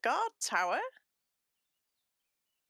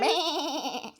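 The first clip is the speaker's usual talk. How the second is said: sheep bleat; 7 semitones higher than usual. Pretend.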